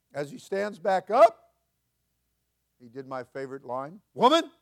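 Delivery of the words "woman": a much higher, louder call. Acted. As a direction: call out to her across the crowd. Jesus voiced in retelling.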